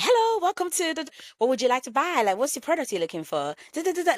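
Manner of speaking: chirpy call center agent greeting a caller; forced smile of a sales rep in the office after crying. Retold or imitated. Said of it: "put my call center voice on".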